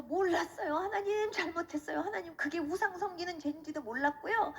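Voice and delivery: re-enacted plaintive confession to God; pleading repentance. Repenting before God over idols, pleading re-enacted confession. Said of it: "하나님 앞에 막 회개했어요".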